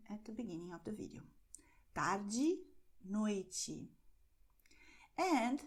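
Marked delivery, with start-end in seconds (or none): 1.9-3.9 Tarde and noite with "ee" on the end; final E as I. Shown as a demonstration. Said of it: "is pronounced as".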